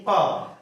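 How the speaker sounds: प sounded alone, both lips touching; teacher demonstrating a lip-made प; labial sound demo. Shown as a demonstration. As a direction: pop प from closed lips as an example. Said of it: "अपने से बोल के देखिए".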